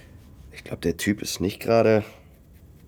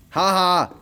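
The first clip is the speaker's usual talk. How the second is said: embarrassed laugh; 8 semitones higher, 4 dB louder than usual. Acted. Caught out over shower gel.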